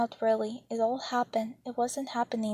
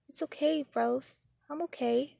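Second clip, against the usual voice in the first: lightly voiced small boy, higher and gentle; a hint of a comforting child; softly, little boy; 4 semitones higher than usual. Little brother soothing his sister, in a light child's voice. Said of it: "he said softly".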